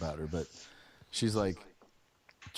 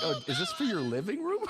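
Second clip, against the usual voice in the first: mock polite; 13 semitones higher, 4 dB louder than usual. Mock-polite retort about the sofa.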